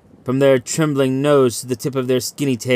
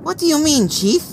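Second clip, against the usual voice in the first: much higher, startled questioning voice; startled Legal. A narrator's reading. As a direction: ask it with a jolt of fear. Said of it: "Legal started".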